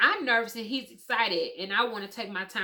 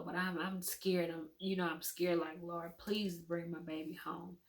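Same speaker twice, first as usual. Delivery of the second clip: scared prayer; 7 dB quieter than usual. Retold or imitated. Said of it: "I start crying".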